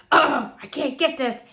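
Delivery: a light mock whine of a child stuck on a task; mock frustrated child. Mother mimics daughter fighting her shoelace, mild whine. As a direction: imitate a kid fumbling her shoe, half-whining.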